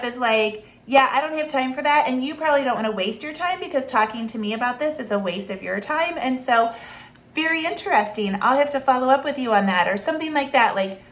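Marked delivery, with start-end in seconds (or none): 0.9-9.9 polite brush-off. Shown as a demonstration. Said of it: "the polite brush off".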